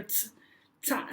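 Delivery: "ta" begun with a sharp ts; German z as ts in "ta"; hard German Z. Shown as a demonstration. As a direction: start "ta" on a hard T-S together. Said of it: "more like a T S sound".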